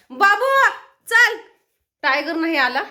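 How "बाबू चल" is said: loud, high summoning shout; calling the pet. Real, not acted. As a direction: call it sharply to come. (मोठ्याने, चढ्या आवाजात हाक)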